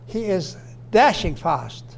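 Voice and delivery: slow, DASHING hit, fast falling after it; one unit led by DASHING; stress on DASHING. Shown as a demonstration. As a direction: punch "dashing", let "fast" drop. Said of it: "Same example".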